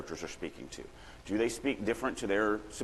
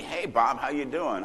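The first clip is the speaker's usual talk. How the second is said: light, chirpy bland greeting; mock small talk; 4 semitones higher, slower than usual. Shown as a demonstration. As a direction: act out dull everyday small talk. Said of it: "It can't just be".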